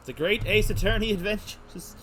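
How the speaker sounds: title called out loud and high; excited announcing. Real, not acted. Streamer hyping up the game title, excited.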